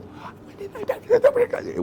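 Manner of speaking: high, slow, mocking wife; sarcastic wife. Wife mocks husband's answer in a high slow drawl. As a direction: drag it out sarcastically.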